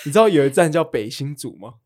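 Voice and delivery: breathy giggling whisper through laughter; laughing whisper. Real, not acted. Teasing her friend about the North Hsinchu stop, whispering through laughter. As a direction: whisper it while stifling a laugh.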